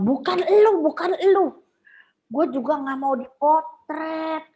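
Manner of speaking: high imitating voice; lightly voiced mock of herself; retelling. Friend quotes her words back, high and mocking. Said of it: "dia bilang".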